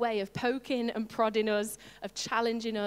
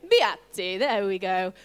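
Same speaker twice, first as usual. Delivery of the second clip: loud, emphatic Latin accent; big, showy Latin pronunciation; 3 semitones lower, 8 dB louder than usual. Shown as a demonstration. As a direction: put on your best Latin accent, loudly. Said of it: "in your best Latin accent".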